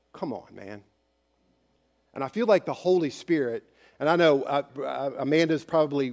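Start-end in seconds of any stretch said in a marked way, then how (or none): 0.1-0.8 小声で、呆れたように優しく; affectionate rebuke. Acted. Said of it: "this is an affectionate phrase".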